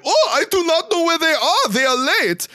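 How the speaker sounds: high, squawky cartoon bird; bird character voice. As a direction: play the bird in a loud-edged, high-pitched put-on voice. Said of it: "And he's like".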